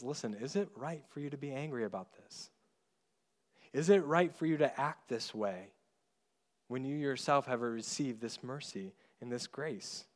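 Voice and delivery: gentle, softly voiced fatherly question; lovingly. God as Father kneeling to child Jonah, lovingly questioning. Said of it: "and lovingly says".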